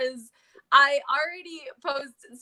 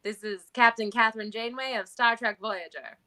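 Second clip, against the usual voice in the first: lightly done Iowa-British accent; 1940s woman's voice, lightly accented; Captain Janeway; 3 semitones lower than usual. Shown as a demonstration. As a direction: introduce yourself with a hint of British-tinged Iowa accent. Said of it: "Her weird Iowa".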